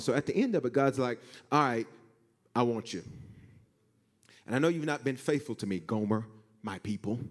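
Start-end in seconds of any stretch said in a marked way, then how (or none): 1.5-7.2 tender. Acted. God tenderly wanting Gomer.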